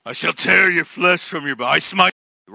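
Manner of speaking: hammed-up divine threat; wrathful God. Imagined angry God threatening Elijah, hammed-up wrath. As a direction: pronounce doom in a put-on grand voice. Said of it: "what he could have said".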